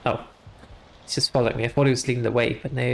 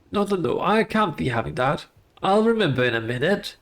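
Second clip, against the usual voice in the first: ghostly gardener voice. Acted. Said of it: "the ghostly voice of a headless gardener".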